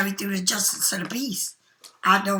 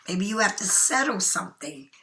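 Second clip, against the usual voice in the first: yawning; 2 semitones lower, 5 dB quieter than usual. Real, not acted. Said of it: "I don't know why I keep yawning".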